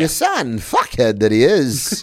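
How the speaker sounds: slow movie-quote impression; Christopher Walken. Quoting True Romance to a friend, slow impression. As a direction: savour the insult, drawing it out. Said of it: "quoting True Romance".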